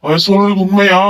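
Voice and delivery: shocked question. Acted. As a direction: ask in shocked disbelief.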